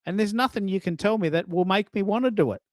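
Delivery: retold firm refusal. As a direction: imitate a man who will not be persuaded. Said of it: "He goes".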